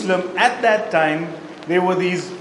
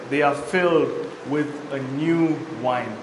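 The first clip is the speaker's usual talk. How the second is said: mocking; 4 semitones lower than usual. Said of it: "others mocking said".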